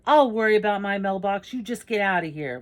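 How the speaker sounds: loud, high scolding; cranky neighbour's shouted dismissal; angry old man. Acted. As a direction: chase the kid off. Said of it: "then he goes".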